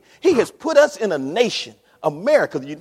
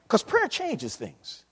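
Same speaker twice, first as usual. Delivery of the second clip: slow emphasis; 4 semitones higher, 3 dB quieter, slower than usual. Real, not acted. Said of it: "slowed emphasis".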